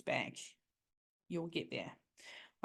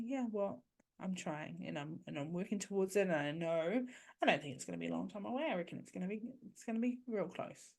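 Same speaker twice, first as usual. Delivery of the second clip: softer, gentle and unbothered; kind, calm reply; 4 dB quieter, faster than usual. Shown as a demonstration. Parent calmly answering an ex-partner's jab, soft and kind. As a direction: answer the jab with patient kindness. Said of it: "say something back with kindness".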